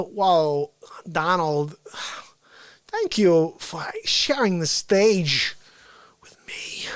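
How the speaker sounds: slow, halting impression fading to a whisper; hushed, quirky actor's thanks; Christopher Walken. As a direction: pause oddly, then trail into breathy near-silence. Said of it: "Christopher Walken".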